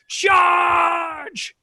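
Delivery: rally the cavalry with a yell; yelled charge. A narrator's reading. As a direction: narrator yells the charge. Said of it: "and he yells".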